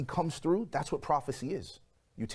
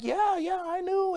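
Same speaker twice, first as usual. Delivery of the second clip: much higher, light mock girlfriend voice; imitating girlfriend; 3 dB louder, slower than usual. Mimicking his girlfriend on the phone, high and casual. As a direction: play the girlfriend, airy and casual. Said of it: "And she's like".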